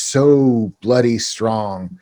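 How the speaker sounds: briefly British-sounding, drawn out; slow, drawn-out British lilt; accidental British. Real, not acted. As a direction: slip into British for a moment, slowly. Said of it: "they turned them British for a moment".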